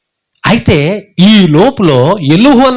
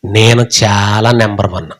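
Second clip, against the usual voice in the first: mock boast; 9 semitones lower than usual. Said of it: "యోబు అన్నాడు".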